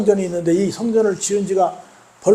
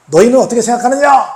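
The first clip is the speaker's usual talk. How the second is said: raised-pitch retold shout to a crowd; crying out; 4 semitones higher, 4 dB louder than usual. High priest before the crowd, crying out a question. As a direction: call the question out to everyone. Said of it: "대제사장이 군중 앞에 외칩니다".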